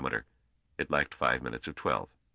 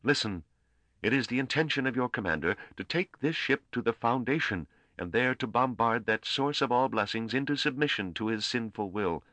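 lightly voiced priest, raised pitch, solemn decree; a hint of pulpit proclamation; orating priest; 5 semitones higher than usual. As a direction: pronounce it like a priest condemning a commander. Priest orates to the crew.

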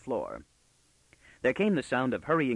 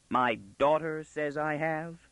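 slow, higher questioning repeat; incredulous echo; 5 semitones higher, slower than usual. Acted. Father questioning what his daughter claimed, incredulously. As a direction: weigh each word in disbelief.

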